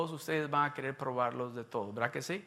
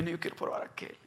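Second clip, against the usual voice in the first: hushed reply; 6 dB quieter, faster than usual. Retold or imitated. Ligia responde en voz baja.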